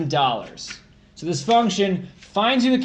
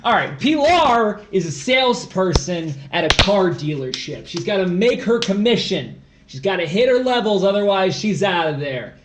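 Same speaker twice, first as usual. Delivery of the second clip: louder, punchy sales pitch; hyped salesman; 4 dB louder than usual. Pretend. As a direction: pump up the team like a sales boss. Pumped sales-pitch reading of problem.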